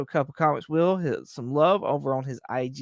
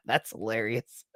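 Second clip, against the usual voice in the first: laughing; 7 semitones lower, 7 dB quieter than usual. Real, not acted. Laughing at chat comment.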